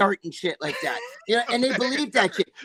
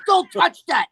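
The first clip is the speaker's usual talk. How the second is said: higher, louder quoted warning; imitated alarmed warning; 6 semitones higher, 6 dB louder, slower than usual. Girlfriend stopping him handling her pouch, alarmed warning. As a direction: act out her urgent order to back off.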